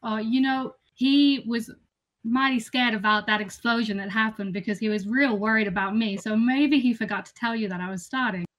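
put-on lightly drawling disguise accent. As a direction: spin an excuse in a fake accent. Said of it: "you said you couldn't do accents".

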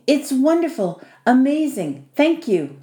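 mild grateful stammer. A narrator's reading. Young guest thanking his host for the room, mildly flustered. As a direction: gush thanks in separate little bursts, lightly. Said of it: "Lucas stammered".

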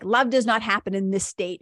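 a tight, clenched voice, face and hands crunched up; tense, clenched. Shown as a demonstration. Showing listeners the contracted state, tightly clenched. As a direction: squeeze the words out through a clenched body. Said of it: "I make tight fists with my hands".

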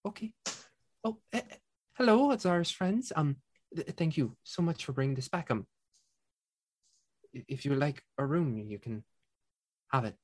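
flustered innkeeper. Acted. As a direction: fluster then gush with thanks. GM voices second innkeeper sister.

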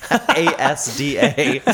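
"A S D A" spelled letter by letter, slowly. Shown as a demonstration. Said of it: "not Asta".

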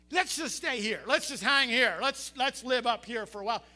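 loud, eager plea from the top; excited rider. Acted. Rider wants to stay at the coaster's apex, excited. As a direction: call it out like a thrilled rider, loud.

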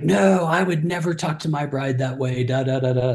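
a hint of a defiant teen, protesting; lightly voiced teen. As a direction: play down the teen's protest, lightly.

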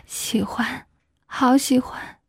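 breathy whispered confession; passionate whisper. A narrator's reading. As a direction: whisper it close and unvoiced. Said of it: "也动情地说".

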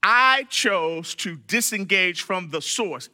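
slow, deliberate restatement. Shown as a demonstration. Teacher restating a choice for the class, slowed down. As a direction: take it slowly so each word lands. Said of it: "So I'm gonna slow down".

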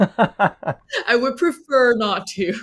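slow, amused decline through a laugh; laughing refusal. Real, not acted. Guest laughs while refusing to imitate the accent, slowly. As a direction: laugh it off as you turn the request down.

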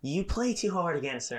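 high scolding voice; mock scolding mom. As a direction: lecture like a tired mom. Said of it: "And she's like".

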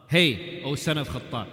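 loud, rude hey to the caliph; disrespectful call. Retold or imitated. Uyayna hailing Umar without respect, loud and rude. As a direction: call him by his father's name, scornfully. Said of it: "He doesn't address him with respect".

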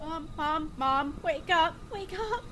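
desperate plea, pitch lifting on the last wake up; pleading with dead mother. Acted. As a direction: beg her to wake, voice climbing. Daughter finds dead mother.

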